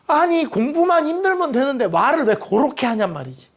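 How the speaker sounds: ordinary talk, nothing marked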